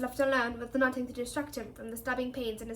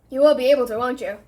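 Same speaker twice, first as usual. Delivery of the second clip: desperate; 9 dB louder than usual. A narrator's reading. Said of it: "said Harry desperately".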